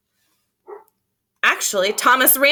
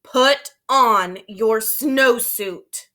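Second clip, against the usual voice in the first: very slow, deliberate commanding order; stern principal; 3 semitones lower, much slower than usual. Acted. Principal sternly ordering the boy, slow and deliberate. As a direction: lay down the law word by word. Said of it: "his very best principal look".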